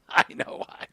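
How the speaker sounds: knowing whisper; whispered aside. Real, not acted. Host repeating the joke to co-host, knowing whisper.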